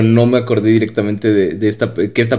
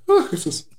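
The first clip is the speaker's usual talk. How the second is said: sneeze; 4 dB quieter than usual. Real, not acted. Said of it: "voy a estornudar".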